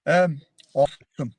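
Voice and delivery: a quick mock American "awesome"; American accent. Grant answers the host's request, mock American accent. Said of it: "how about an American accent for us?".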